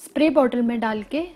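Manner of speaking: muffled by hand; speaking through fingers. Real, not acted. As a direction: hand partly covering mouth. Seen 0: Fingers at lips and cover mouth-nose throughout the words; absent before and after.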